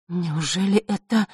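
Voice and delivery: amazed, trailing off slowly; cut off mid word. A narrator's reading. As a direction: break off mid-sentence in awe. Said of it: "замолкла на полуслове".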